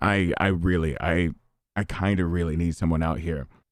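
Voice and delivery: very low, grave, earnest, serious voice. Retelling her call asking for someone to come out: put-on serious voice. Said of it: "in my serious voice".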